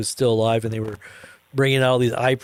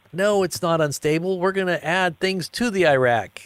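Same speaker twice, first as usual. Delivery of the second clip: mock presenter; 5 semitones higher than usual. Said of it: "he's like".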